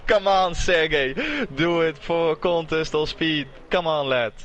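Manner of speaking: rally him like a fan in the stands; cheering on. Real, not acted. Cheering on a driver.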